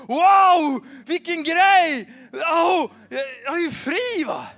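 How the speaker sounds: loud, high, slow cry of joy at being free; ecstatic shout. Retold or imitated. Son shouting at church about being free, ecstatic loud shout. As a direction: shout it out like a freed boy. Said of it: "Han bara".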